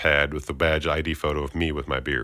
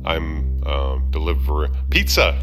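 put-on botched southern accent; slower than usual. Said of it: "why can't I ad lib".

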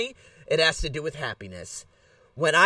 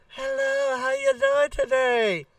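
higher, slow, stretched-skin voice; Botoxed face voice; 7 semitones higher, slower than usual. Retold or imitated. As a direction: talk as if your face is pulled tight by Botox. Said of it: "stretching out my skin ... sound like I got a Botoxed face".

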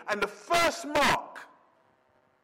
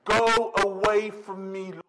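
pleading; 4 dB louder than usual. Acted. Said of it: "he fell at Jesus' knee and said".

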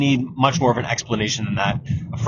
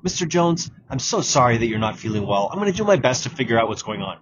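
empathetic tone; 3 semitones lower than usual. Shown as a demonstration. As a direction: comfort him gently. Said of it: "The tone you want is".

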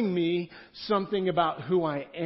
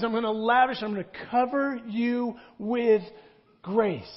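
God's lavish promise; 5 semitones higher, 4 dB louder than usual. Acted. God promises grace to Adam, Eve.

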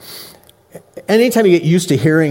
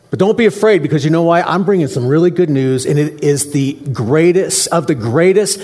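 lightly voiced excited angel; angel announcing; 3 semitones higher than usual. The angels to the startled shepherds, eager announcing. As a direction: play the angel bursting in with news, higher. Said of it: "They're saying".

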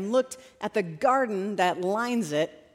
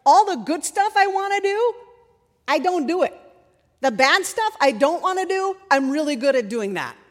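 high, loud exasperated self-accusation; worked-up confession, pitched well up; Paul; 5 semitones higher, 5 dB louder than usual. Retold or imitated. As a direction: exclaim it in raised, incredulous frustration. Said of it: "He's like".

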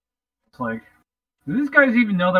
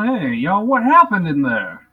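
slow, loud hero's hail with a stretched WHAT HAPPENED; lightly hammed-up cartoon strongman calling out; He-Man voice; 2 semitones higher, 5 dB louder, slower than usual. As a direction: call out like a cartoon hero, drawing it out. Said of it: "my He-Man voice".

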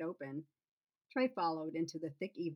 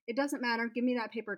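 higher and louder, demanding; insistent demand; 6 semitones higher, 5 dB louder, faster than usual. Acted. She demands her bucket list back, raised and insistent. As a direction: push hard to get the paper back.

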